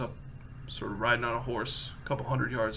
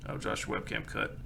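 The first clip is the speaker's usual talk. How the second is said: ordinary delivery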